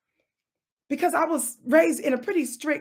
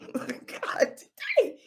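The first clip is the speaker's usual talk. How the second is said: exasperated exclamation; 5 semitones higher, 4 dB quieter, slower than usual. Real, not acted. Exclamation "God, today.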